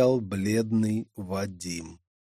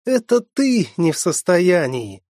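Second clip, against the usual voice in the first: playful retort; 6 semitones higher, 5 dB louder than usual. Acted. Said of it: "возразила шалунья".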